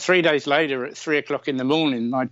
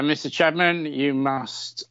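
put-on Polish accent; 2 semitones higher, slower than usual. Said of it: "that's not a very good Polish accent".

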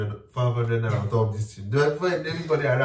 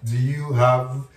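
laughing; 2 semitones higher, 4 dB louder, much slower than usual. Real, not acted. Laughing retelling shop scene.

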